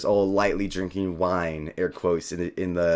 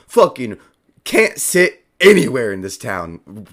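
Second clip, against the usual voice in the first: grumbling complaint; 7 dB louder than usual. Acted. Mimic grumbles storming off.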